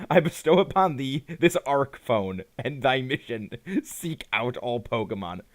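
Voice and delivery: lightly voiced archaic deity; old Englishy voice. Arceus hands the player a mission, lightly put-on old Englishy voice. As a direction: proclaim it like a hint of an old-English god. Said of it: "that old Englishy voice".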